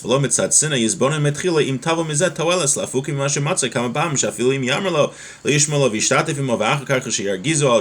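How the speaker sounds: quick, running Hebrew recitation; rapid text reading. Acted. Teacher reading the Hebrew source to students before translating, rapid reading. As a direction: read through the source text briskly.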